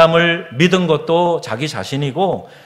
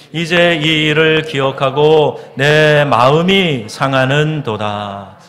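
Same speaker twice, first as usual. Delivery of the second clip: loud, slow congregational Bible reading; scripture reading; 4 dB louder than usual. Acted. Pastor leading the congregation in a psalm, slow loud recitation. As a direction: draw out each phrase solemnly.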